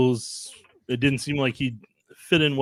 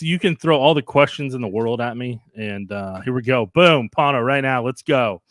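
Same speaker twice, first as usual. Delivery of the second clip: hyped up and punchy on coffee; wired, firing off each phrase; too much caffeine; 4 dB louder than usual. Real, not acted. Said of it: "the coffee has kicked in".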